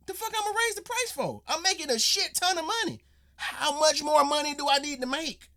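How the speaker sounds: mock Don voice. Reactor imitates tea CEO refusing price hike, high mock voice. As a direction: ham up a carefree rich boss.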